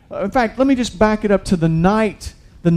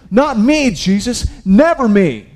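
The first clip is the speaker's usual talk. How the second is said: Peter's protest; 5 semitones higher, 4 dB louder than usual. Retold or imitated.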